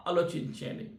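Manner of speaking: breathy hush, voice dropped right down; whispered aside. Real, not acted. Preacher whispering to the congregation to think. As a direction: drop to a whisper to make them think.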